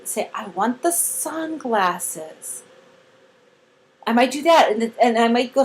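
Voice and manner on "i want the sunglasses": very slow, soft model sentence; much slower. Shown as a demonstration. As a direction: stretch every word out quietly for a learner. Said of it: "say it slower".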